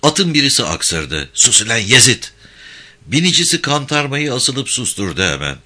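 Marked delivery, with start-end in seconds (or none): 1.3-2.2 sharp hushed scolding. Acted. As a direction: snap at the horse to hush. Rider hushing sneezing horse.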